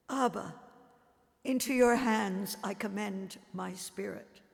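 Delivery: loud cry of a dying man. Acted. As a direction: cry the words out to the Father. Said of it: "he cries out to you".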